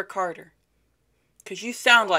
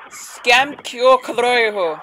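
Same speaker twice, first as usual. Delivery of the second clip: mock Hindi; 4 semitones higher, 3 dB louder, slower than usual. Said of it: "are you comfortable in English?".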